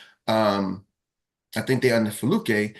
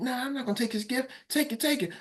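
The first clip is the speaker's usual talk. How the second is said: much higher, softer chanting of the crowd; urging crowd; 12 semitones higher, 6 dB quieter than usual. Retold or imitated. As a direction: egg her on like a crowd. Rita refusing, crowd urging.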